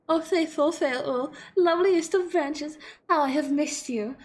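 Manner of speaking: slow, drawn-out declaration of devotion; lightly hammed-up courtly adoration; dramatic devotion. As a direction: stretch it out like a mock-poetic greeting. Trying out dialogue option for fairy.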